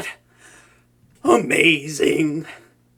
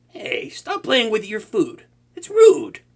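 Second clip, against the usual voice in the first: scolding; 5 semitones higher, slower than usual. Acted. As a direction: tell them off like a fussy host. Scolding the captive.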